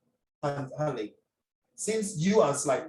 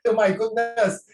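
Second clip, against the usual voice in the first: louder, higher exclamation; exclaimed loudly; 6 semitones higher, 4 dB louder than usual. Shown as a demonstration. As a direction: exclaim it with real shock. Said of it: "I say".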